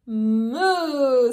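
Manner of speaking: cow moo. Acted. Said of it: "says a cow".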